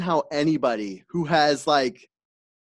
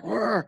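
angry growl; 8 semitones higher, 4 dB quieter than usual. Retold or imitated. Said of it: "got up and was mad and was like".

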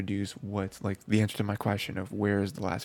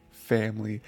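louder echo of the word, imitating a moved reaction; Koski's reaction; 4 dB louder than usual. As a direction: repeat it with more force, mock-emotional. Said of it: "And Koski's like".

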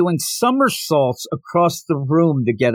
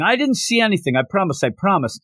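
mock panicked yell; 4 semitones higher, faster than usual. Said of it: "Twilight starts yelling".

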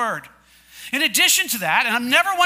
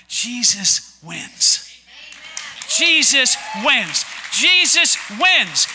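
building declaration; much slower than usual. Real, not acted. Repeated triumphant sermon declaration.

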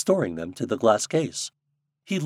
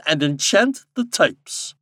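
slow, raised, emphatic instruction ending in a fall; commanding king; 7 semitones higher, 5 dB louder, slower than usual. A narrator's reading. King instructing Popopo, commanding. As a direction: pronounce the order slowly and grandly.

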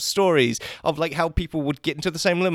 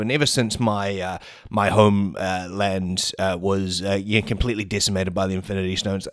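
Thanos; 9 semitones lower than usual. Acted. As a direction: put on a big low Mad Titan voice. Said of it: "interview with Robert Downey Junior and Thanos".

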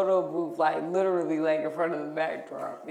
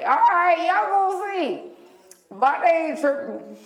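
much higher and louder, daring them to watch; defiant retort; 10 semitones higher, 4 dB louder than usual. Retold or imitated. Girl vowing to her prom date, loud and defiant. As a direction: throw it back at him like a challenge.

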